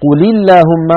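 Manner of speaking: قل linked as quli to اللهم; short i on the lam of قل before اللهم; lam given kasra. Shown as a demonstration. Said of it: "فحرك الأول بالكسر".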